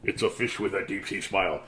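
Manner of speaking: low, soft and quick, trying to calm down. Shown as a demonstration. Reading a calming book, dropping to a low soft voice. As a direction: bring the voice down to soothe. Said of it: "Maybe if I lower my voice, that'll be better".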